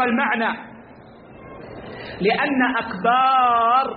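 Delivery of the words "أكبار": أكبار with a long slow alif before the ra; slow demonstration of akbar; lengthened alif. Shown as a demonstration. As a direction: stretch the a in أكبار. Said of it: "بمد الألف قبل الراء".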